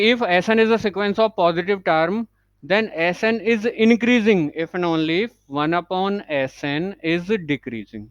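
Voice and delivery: very slow, word by word, for notes; slow dictation. Shown as a demonstration. Teacher dictating the English note to students, very slowly. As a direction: dictate it so students can write along.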